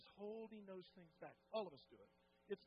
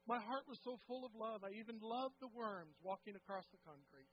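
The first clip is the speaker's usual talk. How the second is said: joyful retelling; 5 semitones higher, 5 dB louder than usual. Retold or imitated. Sam's joyful retold testimony.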